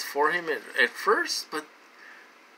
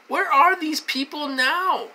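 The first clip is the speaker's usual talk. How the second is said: loud demand; 10 semitones higher, 6 dB louder than usual. Real, not acted. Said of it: "get on a rant and get loud".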